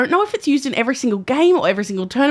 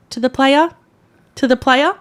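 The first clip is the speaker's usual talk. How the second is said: lightly voiced umpire, raised and insistent; umpire instructing; 3 semitones higher, 3 dB louder than usual. Umpire prompting an embarrassed ball kid, instructing. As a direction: imitate an umpire's higher prompting call. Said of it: "the umpire's like".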